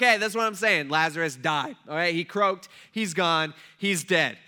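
loud, emphatic spelling-out; plain blunt telling. Retold or imitated. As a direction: hammer the hard fact home. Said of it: "Jesus just tells them plainly".

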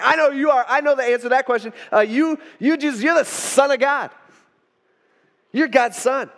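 high, eager burst; blurted out. Acted. Peter blurting his answer to Jesus, excited. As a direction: blurt the answer like an overeager pupil. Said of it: "Peter, he just blurts out".

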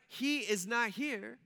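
slow and deliberate, each word given room; slow, measured reading. Acted. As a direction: read the verse slowly with weight. Angel's words read out slowly.

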